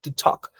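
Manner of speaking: "To talk" said as tu tok, no L; "talk" rhymes with tok; silent L in talk. Shown as a demonstration. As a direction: drop the L in "talk". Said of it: "Noten que no pronuncio to talk".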